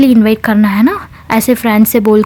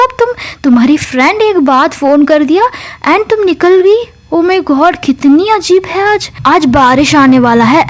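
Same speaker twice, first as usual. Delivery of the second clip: higher, mock-astonished teasing from mom; shocked mother; 4 semitones higher than usual. Mom teasing daughter about a friend, pitched-up mock shock. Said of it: "mamma shock होते हैं".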